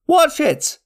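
high-pitched shouted warning. A narrator's reading. Monster hunter warning his comrades as the creature attacks, high shout. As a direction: cry out in alarm, voice leaping high. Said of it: "one man shouted".

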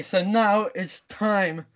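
slow, spaced-out mock announcement; segment announcer. Host introducing the last round's news segment, slow announcer delivery. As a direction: draw out the segment title like an announcer.

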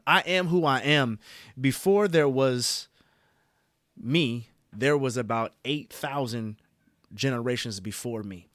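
booming self-affirmation; loud declaration. Real, not acted. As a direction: declare it like a rallying cry.

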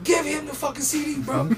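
exasperated insistence. Retold or imitated. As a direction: imitate a friend pleading your case. Acted Jack scolding his manager.

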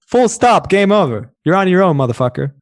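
high, mocking blunt brush-off; blunt dismissive. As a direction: sneer it out like a rude clerk. Voicing the clerk's blunt attitude.

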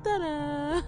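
high, loud ta-da; a showy ta-da. Acted. Announcing herself grandly.

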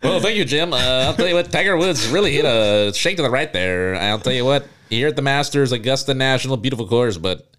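lightly voiced golf reporter; a hint of a folksy commentator. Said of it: "that reporter voice you just did".

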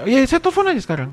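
high, brisk and keen; eager offer. Retold or imitated. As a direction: jump in with a bright offer. Lecturer eagerly offers to call. (dosen menawarkan menelepon dengan antusias)

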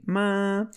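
"ma." held high and level; level first-tone "ma.". Shown as a demonstration. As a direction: say "ma." on one flat high pitch. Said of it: "like, a plain one".

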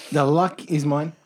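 bad Brian Brown impression. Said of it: "shite impressions".

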